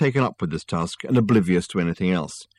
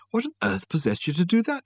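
amazed; 10 semitones higher than usual. Acted. Susan amazed at Richard.

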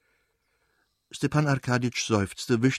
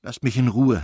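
exasperated; 3 dB louder than usual. Acted. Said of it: "hatte sie gesagt".

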